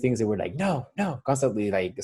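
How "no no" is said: put-on high-pitched "no, no" to a toddler; mock parental scolding. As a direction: imitate a parent stopping a little one. Parents retold stopping their toddler.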